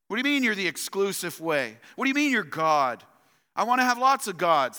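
acting out indignant objectors; lightly hammed-up disgusted complaint; mock disgust. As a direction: protest like an affronted grumbler. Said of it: "Response is one of disgust".

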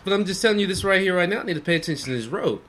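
quick, insistent lecture to passenger; fast firm telling-off. Retold or imitated. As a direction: rattle it off to shut her up. Driver firmly tells passenger off.

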